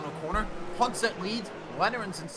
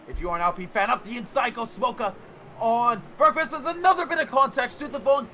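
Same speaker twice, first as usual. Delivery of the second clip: excited shout; 4 semitones higher than usual. Real, not acted. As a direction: call the start at full pitch. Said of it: "I'm running out of breath".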